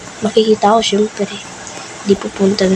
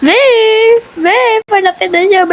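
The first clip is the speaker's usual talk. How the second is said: loud, higher urgent call; 12 semitones higher, 4 dB louder, faster than usual. Real, not acted. Panicking as the seeker nears, calling her friend loudly. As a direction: call out to your friend across the map.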